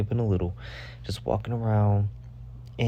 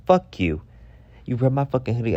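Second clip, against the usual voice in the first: retold angry retort; 3 semitones higher, 3 dB louder, faster than usual. Acted quarrel over ripped hoodie.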